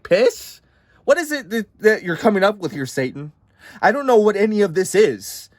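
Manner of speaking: high, rising bewildered questions; baffled God. Acted. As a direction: sound totally lost. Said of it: "God's like".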